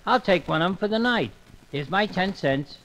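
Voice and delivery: mild, polite cartoon everyman; a gentle guest asking for a room; Elmer Fudd voice. Elmer books a ten cent room, mild cartoon voice.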